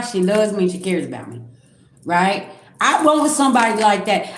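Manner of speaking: usual speaking voice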